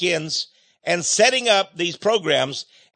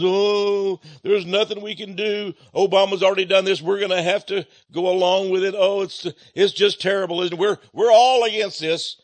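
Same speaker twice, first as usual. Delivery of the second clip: a hammed-up fake lament, a touch louder; mock hand-wringing; 4 semitones higher, 4 dB louder than usual. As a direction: whine it like a congressman pretending to be helpless. Mocking congressmen wringing hands.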